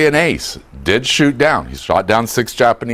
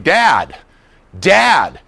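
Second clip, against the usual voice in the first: calling out; 4 semitones higher than usual. Shown as a demonstration. Calling father down hall.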